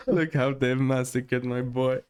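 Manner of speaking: slow, lightly acted movie line; a mild echo of the film delivery; Godfather film quote. Co-host repeats the corrected Godfather line, slow and lightly acted. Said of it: "This is Godfather One".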